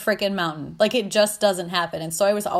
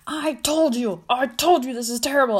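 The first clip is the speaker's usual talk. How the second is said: higher-pitched mock whine of complaint; upset tantrum; 5 semitones higher than usual. Tantrum thought, near tears.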